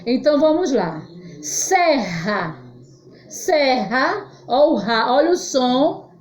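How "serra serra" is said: "Serra" with the RR as an h sound; strong R. Shown as a demonstration. Teacher shows the strong sound, h-like RR in "Serra". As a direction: say "Serra" syllable by syllable, breathy H for RR. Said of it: "som forte".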